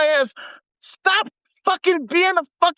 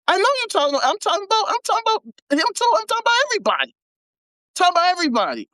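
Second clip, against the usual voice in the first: raised pitch, quick, teasing the audience; mock defensive; 5 semitones higher, much faster than usual. Real, not acted. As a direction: fire back at the chat, pitched up. Mock protest from listeners.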